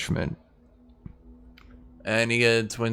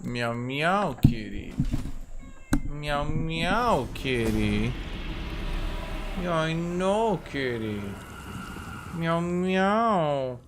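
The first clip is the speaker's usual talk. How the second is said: soft cooing singsong to a pet; 2 semitones higher, 6 dB quieter than usual. Real, not acted. Streamer talks to his cat between turns, soft cooing baby talk.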